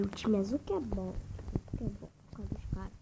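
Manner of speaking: out of breath, panting words; wind knocked out. Real, not acted. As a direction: gasp it out with no air left. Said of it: "Ai, eu tô sem ar".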